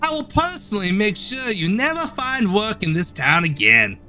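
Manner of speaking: a stern foreman scolding his worker; gruff boss voice. Acted. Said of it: "that's exactly his voice".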